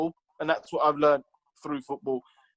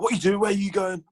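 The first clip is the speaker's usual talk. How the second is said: higher, pushy mock manager grilling a player; aggressive Lenny; 5 semitones higher than usual. Manager confronting a player in the hall, mock aggressive. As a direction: imitate an in-your-face boss, a little higher. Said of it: "But he's aggressive".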